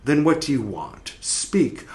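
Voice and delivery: hushed soul asking; soul speaks softly to the dead. Acted. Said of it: "the soul is gonna talk".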